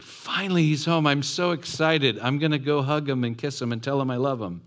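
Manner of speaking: high, gushing mock delight; mock joy. Older brother imagined cheering his brother's return. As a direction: play the brother the way he should have felt.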